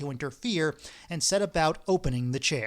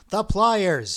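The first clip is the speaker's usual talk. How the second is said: louder, crazed snarl; 4 semitones higher, 7 dB louder than usual. Acted. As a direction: snarl the demand like a madman. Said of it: "snarled the crazed Vorobianinov".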